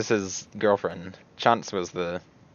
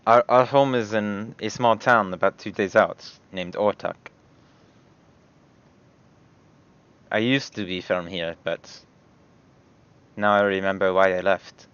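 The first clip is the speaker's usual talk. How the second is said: Hiada in character. Acted.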